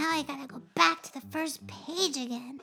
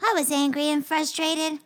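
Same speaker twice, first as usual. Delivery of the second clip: louder, sincere apology; apologizing to a hurt friend, louder; earnest apology; 5 dB louder than usual. Acted. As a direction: say sorry and mean it.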